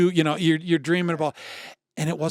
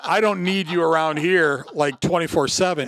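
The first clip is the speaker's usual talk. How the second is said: louder, higher mock objection; exasperated wife; 3 semitones higher, 4 dB louder than usual. Wife to husband about him retiring home, exasperated. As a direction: imitate a wife putting her foot down. Wife's retort, acted to laughter.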